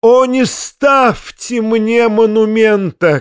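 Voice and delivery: high, slow theatrical wail; crying out. A narrator's reading. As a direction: cry out in drawn-out pleading. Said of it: "кричал Фома".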